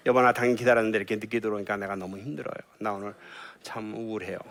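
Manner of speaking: gentle, quiet confession of hurt; soft I-message. Shown as a demonstration. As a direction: tell him softly how you feel. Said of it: "이런 얘기를 해야 돼요". (늦게 온 남편에게 부드럽고 조용하게)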